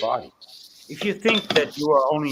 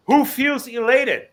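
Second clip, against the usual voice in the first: high, loud, slow preacher's call; 9 semitones higher, 5 dB louder, slower than usual. Retold or imitated. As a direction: call out to the congregation like a pastor. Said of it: "the pastor in front of us said".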